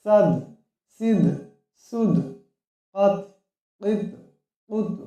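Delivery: each syllable's final letter bounced out with an echo; chanted qalqalah syllable drill. Shown as a demonstration. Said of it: "কলকলা করিয়া করতে হবে".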